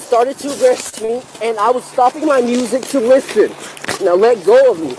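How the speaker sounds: loud panicked shouting at officers; yelling in real distress. Real, not acted. Resisting arrest, yelling at officers.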